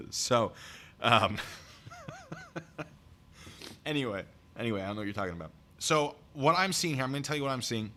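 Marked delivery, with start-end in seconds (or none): 1.4-3.8 high, soft wheezy chuckle. Real, not acted. Streamer cracks up at his own polygraph joke, soft chuckling. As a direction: let a quiet laugh run on.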